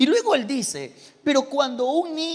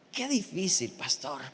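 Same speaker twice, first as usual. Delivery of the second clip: mock lament; 6 semitones lower, 8 dB quieter than usual. Shown as a demonstration. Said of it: "Diga conmigo".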